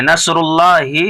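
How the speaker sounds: नसरुल्लाहि with the final ही said short and quick. Shown as a demonstration. Teacher shows the right short ending, quick ही. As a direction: clip the last ही of नसरुल्लाहि, no stretch. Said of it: "ही को जल्दी पढ़ना, खींचना नहीं है".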